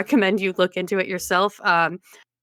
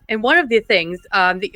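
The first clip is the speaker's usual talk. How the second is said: ordinary talk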